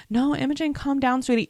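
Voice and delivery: high, sugary, talking down to her; mock the stepmom soothing her like a child; mock condescending. Stepmom talking down to Imogen, high and patronising. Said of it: "You're also acting like".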